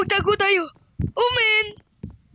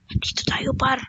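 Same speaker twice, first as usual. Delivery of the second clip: whisper; 4 semitones lower than usual. Acted. Sneaking into house.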